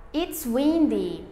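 slow, clear teacher voice reading examples; spaced-out classroom model sentences. Acted. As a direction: read each sentence out for learners to copy.

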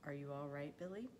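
gentle, calm question with a rise; a father's quiet check-in. A narrator's reading. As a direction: ask it calmly and softly, lifting at the end. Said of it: "In a slow, calm voice".

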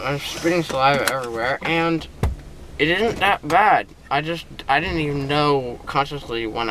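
thick speech through mouthful of gauze. Real, not acted. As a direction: talk around gauze, a bit slurred. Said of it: "that's why I'm talking so weird".

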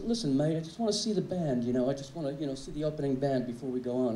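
fake English accent. To the usher, in a fake English accent. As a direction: teenager bluffing the doorman with a fake English accent. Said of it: "put on this fake English accent".

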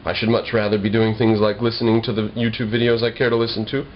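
ordinary talk, nothing marked

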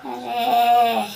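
long drawn laughing arre; cat yelping with a laugh. Acted. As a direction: let it stretch out with a laugh. Cat startled by strike.

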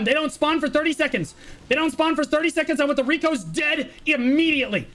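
rally the team onto the target now; real urgent yelling orders; urgent shouted orders. Real, not acted. Shotcaller urging team onto recoveries.

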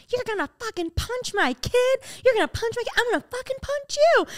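high-pitched, held-back imitation of a furious mother; mock screaming. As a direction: screech the threat without full volume. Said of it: "they were screaming".

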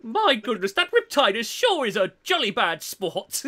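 lightly put-on British gent; a hint of jolly British accent; mock British accent. Mocking a British robot fan, light British accent. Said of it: "Dom embraced the British a little too hard".

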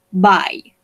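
"Bye" as in saying goodbye; "Bye" spoken clearly as a farewell. Shown as a demonstration. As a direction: model "Bye" the way you say ciao. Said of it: "Es como si estuviéramos diciendo chao".

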